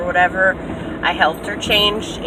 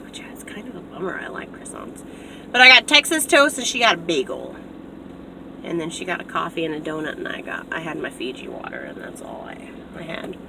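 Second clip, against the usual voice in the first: near whisper; 3 semitones lower, 6 dB quieter than usual. Real, not acted. Sudden drop to near-whisper.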